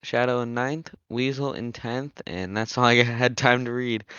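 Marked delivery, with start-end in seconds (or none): 1.1-4.0 breathless after rattling off the list; running out of air mid-sentence; out of breath. Real, not acted. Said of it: "got a little out of breath there".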